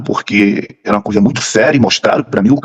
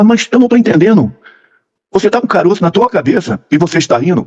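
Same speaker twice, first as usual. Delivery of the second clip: higher-pitched mock bewilderment; baffled wife, retold; 6 semitones higher than usual. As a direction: voice the wife's puzzled protest, pitched up. Retold wife baffled by his laughing.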